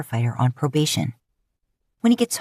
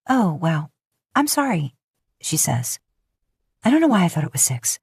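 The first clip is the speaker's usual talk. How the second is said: fake-sorry Lisa. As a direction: apologise without meaning it. Lisa's fake apology.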